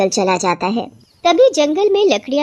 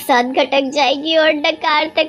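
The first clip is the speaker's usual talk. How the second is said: mildly alarmed wife, climbing higher at the end; worried wife; 3 semitones higher than usual. Acted. Wife warns husband the witch will swallow them, worried. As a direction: warn him with growing alarm.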